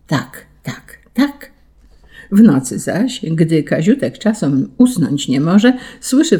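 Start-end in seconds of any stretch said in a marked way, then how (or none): 0.1-1.5 clock nodding along. A narrator's reading. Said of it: "a zegar przytakuje".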